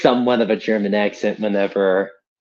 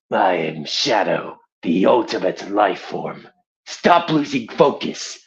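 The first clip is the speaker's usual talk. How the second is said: Shadow. Acted. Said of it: "I can voice Shadow".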